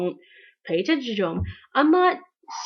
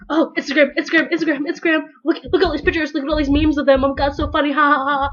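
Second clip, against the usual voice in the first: giddy scrolling fan; 3 semitones higher, 4 dB louder, faster than usual. Retold or imitated. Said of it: "And then you're just like".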